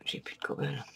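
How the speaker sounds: whispered to himself; soft whispered lament; whispered dismay. Real, not acted. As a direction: breathe it out in dismay. Out of cobble, said twice.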